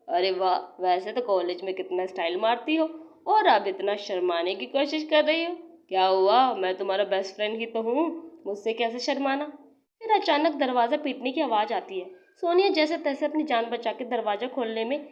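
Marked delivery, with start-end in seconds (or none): 0.1-9.4 lower, sneering male voice; low mocking villain. Gagan taunting trapped Rajni, low and sneering.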